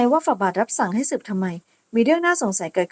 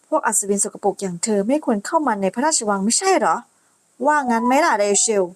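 sneering insult. Acted. Noble bully mocking the knight and the girl. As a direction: look down on the dirty knight.

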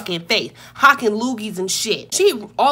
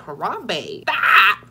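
comic shout; 3 semitones lower, much slower than usual. Retold or imitated. Gorilla mode confrontation.

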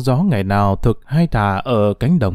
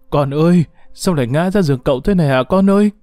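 frightened mother; 3 semitones higher, faster than usual. Acted. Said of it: "miệng sợ hãi".

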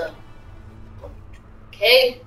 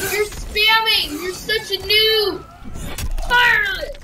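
angry yelling; 5 semitones higher than usual. Real, not acted. Angry at opponent spamming attacks.

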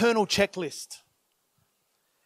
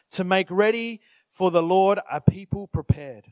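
scripture reading. Acted. Reads scripture aloud.

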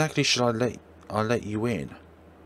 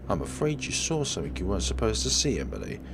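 menacing killer; faster than usual. Acted. Killer threatening the witness, sinister.

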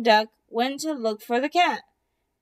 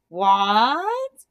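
surprised; 3 semitones lower, 5 dB louder than usual. Acted. Turkey surprised by gossip.

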